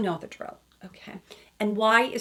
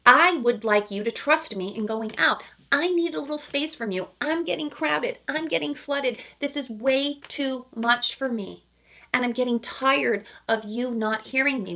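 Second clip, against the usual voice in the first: higher pleading voice, fed up and crowded; higher voice, worn down and pleading; voicing Jimmy; 5 semitones higher than usual. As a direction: play the boyfriend who feels smothered. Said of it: "And Jimmy is saying".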